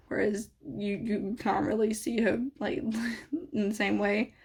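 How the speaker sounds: hiccuping mid-sentence; talking through hiccups. Real, not acted. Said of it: "why do I have the hiccups?".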